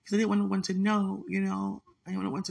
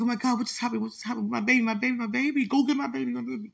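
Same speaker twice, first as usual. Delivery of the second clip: distraught wailing; 4 semitones higher, faster than usual. Retold or imitated. Mother relives screaming for her lost baby, distraught and frantic. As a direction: retell the breakdown, voice straining upward on my baby.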